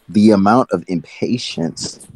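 flat monotone robot voice. Real, not acted. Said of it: "Why do you sound like a robot?".

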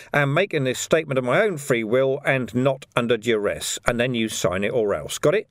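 policeman dictating, brisk authority with a hint of menace; measured official dictation, lightly in character; lightly voiced copper. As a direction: dictate it firmly, ending on a light threat. Vimes dictates a confession.

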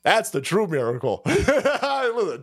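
ordinary talk

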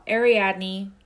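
Ariadne drawn out slowly, air-ee-AD-nee; slow careful pronunciation. Shown as a demonstration. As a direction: say Ariadne slowly, each syllable clear. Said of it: "not Adrian".

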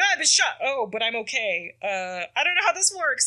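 hammed-up alarm at being shot; mock panic. Peter panicking after being shot.

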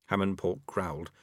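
ordinary delivery

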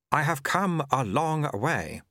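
drawn-out "long" held slow; stress on long. A narrator's reading. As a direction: stretch the word "long". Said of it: "the way he had pronounced long".

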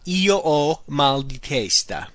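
slow, careful model phrase. Shown as a demonstration. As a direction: say it slowly for learners. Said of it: "meaning I have".

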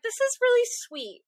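high, gushing squeal of delight. Retold or imitated. Reacting to the dog's metal leg, high gushing coo. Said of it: "which I'm like".

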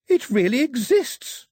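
high, drawn-out excited yell; thrilled girlish shout. A narrator's reading. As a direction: cry out in amazed delight. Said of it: "Daphne yelled".

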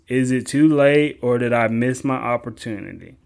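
loud, slow voice for the viewer's question; reading viewer question. Pretend. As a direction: read the fan letter loud and slow, like a different person.

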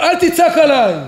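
high-pitched, indignant acted yell; acted angry retort; shouting back. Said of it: "כשאתה רואה מישהו צועק עליך בדרך".

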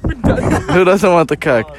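slow, laughing tease; laughing, drawn out. Real, not acted. Teasing a coworker on the podcast, slow and laughing. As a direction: stretch it out while cracking up.

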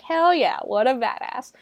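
high-pitched cheer easing off; hyped audience reaction; excited cheer. Acted. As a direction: cheer on the hero as a fan. Viewer cheering the heroine.

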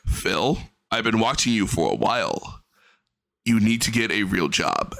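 a cat calmly telling its owner off; a hint of a solemn pet giving advice; talking cat. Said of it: "comes in and goes".

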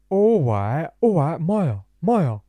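high, loud mocking drunk lad voice; drunk mock impression of Jeevan. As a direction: ham up a drunk friend on the phone. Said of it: "That's not how I sound, by the way".

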